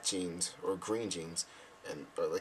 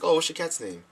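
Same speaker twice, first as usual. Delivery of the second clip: fake interest; 7 semitones higher, 4 dB louder than usual. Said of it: "Pretending to be interested".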